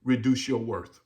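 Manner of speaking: slow, weighty question with pauses. Shown as a demonstration. Speaker repeating his question for students, slowly and deliberately. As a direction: let each word land slowly. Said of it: "I'm gonna say that again 'cause I said that too fast".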